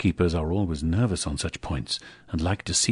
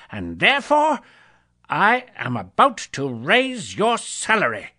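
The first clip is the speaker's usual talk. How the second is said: high, loud, gleeful burst; spring the happy surprise on him; joyful reveal; 11 semitones higher, 6 dB louder than usual. Acted. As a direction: Scrooge giving his clerk a raise. Scrooge revealing raise joyfully.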